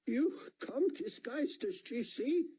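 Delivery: high, slow, tearful question; a weeping mother's high, slow voice; crying. A narrator's reading. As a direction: sob through the words in relief.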